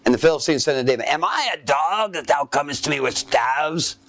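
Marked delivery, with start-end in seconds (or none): 1.1-4.0 lightly voiced Goliath taunting; giant's voice. Goliath sneering at young David, lightly voiced giant. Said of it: "the reason I'm speaking like that".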